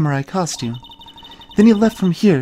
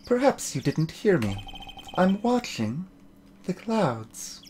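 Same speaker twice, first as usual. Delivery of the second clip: a much softer, icy brush-off; cold snub; 11 dB quieter than usual. Acted. Aloof woman coldly refusing to talk to Nick. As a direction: dismiss them without looking up.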